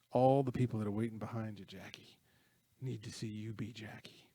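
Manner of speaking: steady, heartfelt encouragement of a shaken player; retold invigorating speech. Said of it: "He gives him this wonderful, invigorating speech".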